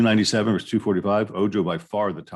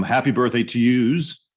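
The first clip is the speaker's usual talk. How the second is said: put-on playful New York accent, higher and louder; 4 semitones higher, 5 dB louder than usual. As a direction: stretch it out like a mock New Yorker wishing birthdays. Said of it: "My New York, New York accent".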